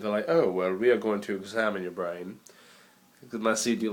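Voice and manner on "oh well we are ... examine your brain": put-on English accent. Vlogger mimicking an English-accented doctor, mock English accent. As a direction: put on a drunk Russell Brand English accent. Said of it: "English accent I think is the most intelligent".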